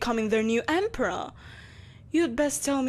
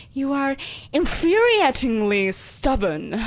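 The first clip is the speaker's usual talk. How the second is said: exasperated; 5 dB louder than usual. Acted. Exasperated empress scolds hero.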